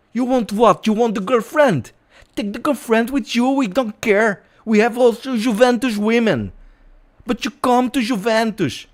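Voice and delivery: high-pitched, insistent footballer's recruiting pitch; high, pleading impression of a foreign teammate; player impersonation. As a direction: coax him to sign in a high put-on voice. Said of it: "I will stop with the, uh, impersonation".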